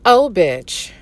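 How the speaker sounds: a blunt, disbelieving break from the neutral tone; incredulous "oh, bitch"; exasperated aside. Real, not acted. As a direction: drop the professional act for a second. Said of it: "get out of professional mode".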